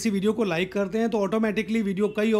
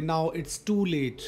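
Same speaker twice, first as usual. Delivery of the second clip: slow demo; 2 semitones lower, much slower than usual. Shown as a demonstration. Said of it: "बहुत देर हो चुकी है".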